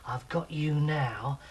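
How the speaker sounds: slow, gloating threat; lightly voiced slow villain; triumphant Fat Tulip. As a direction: savour having them cornered. Fat Tulip corners the frogs.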